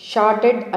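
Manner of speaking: "షార్టెడ్" as one clearly articulated word; model pronunciation. Shown as a demonstration. Teacher showing how the word must be said, careful pronunciation of "షార్టెడ్". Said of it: "అని పలకాలి".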